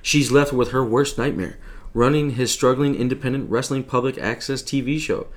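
trailer announcer read; network promo voice. Acted. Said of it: "You've been working on your promo voice".

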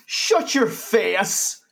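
loud, high, drawn-out mock Irish shout; bad Irish accent. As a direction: yell it in a hammed-up Irish accent. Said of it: "I can't even do an Irish accent".

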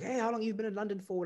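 voicing a Zimbabwean guy. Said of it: "he's like".

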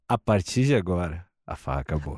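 S2 shows the full phrase as a dark, fading threat; ominous low delivery. Shown as a demonstration. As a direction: sink the threat down into a hush. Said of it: "É que tem um".

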